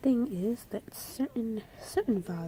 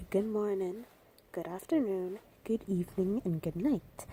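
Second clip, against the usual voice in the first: Jamaican greetings. Shown as a demonstration. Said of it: "they always say".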